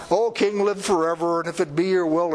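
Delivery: lightly hammed-up courtier's bow in words; a hint of a courtier flattering his king; courtly flattery. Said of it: "This is not courtly".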